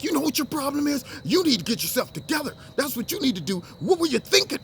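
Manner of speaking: high-pitched acted telling-off; scolding parent. Talking parent to child to another adult, mock scolding. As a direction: lecture them like an exasperated parent. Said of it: "talking to a parent to child".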